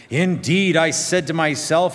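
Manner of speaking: Naaman's words read with mounting indignation; indignant reading. Acted. Preacher voicing Naaman's offended pride, indignant. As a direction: lift it, offended and proud. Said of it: "Notice verse eleven".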